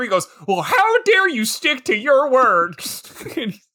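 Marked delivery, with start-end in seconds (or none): 0.5-2.7 mock-indignant teen, drawn out; slow, petulant teenage protest; pouty teenager. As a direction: put on a teenager's huff, stretching the words. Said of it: "Like a pouty teenager".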